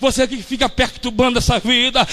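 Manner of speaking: loud, driving sermon rebuke; preaching at full force. Real, not acted. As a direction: rebuke the spirits with fervour. (pregação inflamada)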